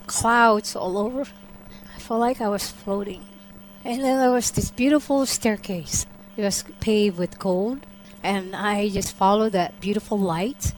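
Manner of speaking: soft, reverent telling with long pauses; hushed awe. Real, not acted. Believer describing her vision of the Savior, hushed awe. Recounts vision of heaven and Jesus.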